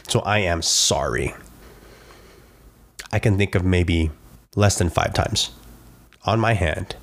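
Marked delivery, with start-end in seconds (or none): 0.1-1.3 slow, lower, weighted apology; mean it deep down, word by word; heartfelt apology. Acted. Owning up to what he's done, heartfelt and slow. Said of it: "Like, deep down".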